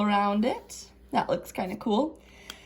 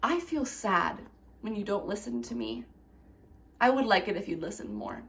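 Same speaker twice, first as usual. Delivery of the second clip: soft, calm and respectful; quiet respectful request; 7 dB quieter than usual. Shown as a demonstration. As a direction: speak gently to settle the problem. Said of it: "calmly and with respect and say".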